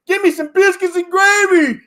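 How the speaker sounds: making fun of a rube; mock Southern hick. Fan on TV mocking a Southern rival, high hick voice.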